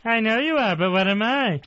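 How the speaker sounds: lightly voiced cartoon man-child taunt; a hint of a childish comic voice; Pee-wee Herman. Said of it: "Pee-wee Herman impression".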